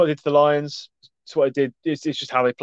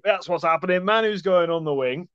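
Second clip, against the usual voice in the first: mock-gleeful scheming coach, pitched up; higher, sing-out mock glee; imagined giggling coach; 5 semitones higher than usual. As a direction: play a coach tickled by his own mischief. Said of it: "Giggling to himself".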